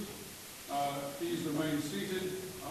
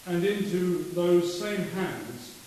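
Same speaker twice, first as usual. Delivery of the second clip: solemn prayer. Acted. Committal prayer at funeral.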